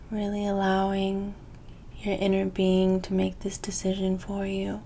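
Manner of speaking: guided meditation. Acted. Reader settles viewers before choosing their cards, guided meditation.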